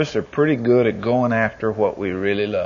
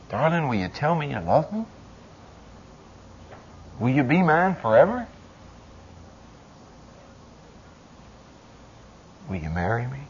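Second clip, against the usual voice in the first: soft mock proposal; 5 dB quieter than usual. Man proposing to his darling, softly fading. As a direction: coax it gently down to a hush.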